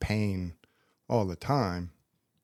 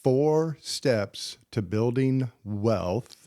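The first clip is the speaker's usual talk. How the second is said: slow announcer tease; much slower than usual. Acted. Teasing podcast lineup, drawn out.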